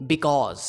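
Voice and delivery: because with an open "aw", bi-KAWZ; long open vowel in because; wrong pronunciation. Shown as a demonstration. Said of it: "जो कि गलत है".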